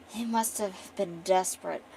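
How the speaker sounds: lightly acted disdain; disdainful. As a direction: sneer it lightly, like a noble. Acting the noble woman's disdain.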